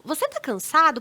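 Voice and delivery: conciliatory, caring question; gentle questioning tone. Shown as a demonstration. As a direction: ask it gently, curious not ironic. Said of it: "num tom assim, tipo".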